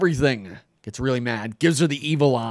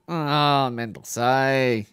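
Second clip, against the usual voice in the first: annoyed; 2 semitones higher, much slower than usual. Retold or imitated. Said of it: "He's getting mad".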